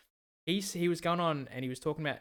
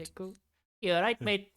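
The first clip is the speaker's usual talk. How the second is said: attempted British accent, pitched up; botched British accent; 5 semitones higher than usual. Shown as a demonstration. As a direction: try British and let it slip. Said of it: "a British accent, and it just comes out South African".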